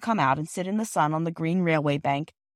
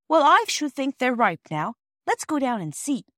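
put-on higher, eager child's voice; child with an idea; 7 semitones higher, 4 dB louder than usual. Girl urging the others to go and see, eager. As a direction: pitch it up like a keen child.

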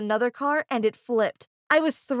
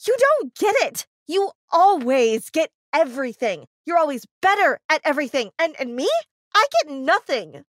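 loud jealous yell, much higher at the start; 4 semitones higher, 5 dB louder than usual. Acted. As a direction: shout it at her, hurt and bitter. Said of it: "I started yelling at her too".

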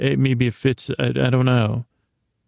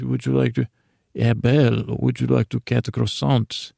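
lightly voiced Lumiere. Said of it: "I think Lumiere said that".

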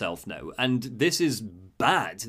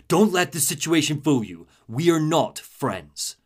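Freeze warning; slower than usual. Retold or imitated.

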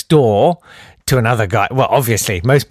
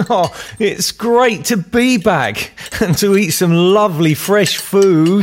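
high, slow, dazed voice of a returned spaceman; returned astronaut; 7 semitones higher than usual. Acted. Astronaut home from space, to his wife, high and slowed down. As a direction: play a spaceman who is high and slowed right down, lost back on Earth.

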